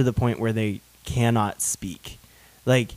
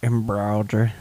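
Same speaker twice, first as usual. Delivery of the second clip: put-on "Embroidery" in an old-school Atlanta Southern accent; old Georgian accent; 3 semitones lower, 4 dB quieter than usual. Host mimics how older Atlanta audiences say "Embroidery", in Georgian accent. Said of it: "that Georgian Atlanta old school accent".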